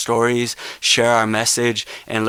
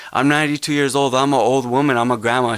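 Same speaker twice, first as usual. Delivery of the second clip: a lightly raised, quicker retelling of the grandma; elder's words; 2 semitones higher, faster than usual. Retold or imitated. Activist re-quotes the elder grandma, lightly raised and quick. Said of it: "I'm paraphrasing now".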